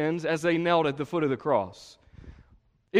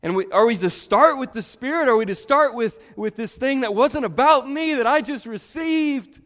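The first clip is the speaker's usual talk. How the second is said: fervent preaching; 6 semitones higher, 7 dB louder than usual. Acted. Preaching at full force.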